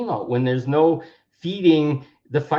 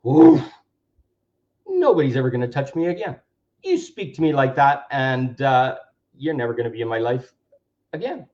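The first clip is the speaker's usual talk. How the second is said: empowered declaration; 3 dB louder than usual. Shown as a demonstration. Claiming power after a trigger.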